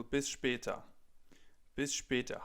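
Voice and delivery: Bis später with a German schp in später. Shown as a demonstration. Teacher modelling a formal goodbye, clear German. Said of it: "you can say, for example".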